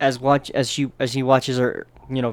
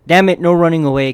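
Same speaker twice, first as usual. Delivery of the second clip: louder, higher psyched-up self pep talk; 4 semitones higher, 6 dB louder, faster than usual. Retold or imitated. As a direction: pump himself up out loud.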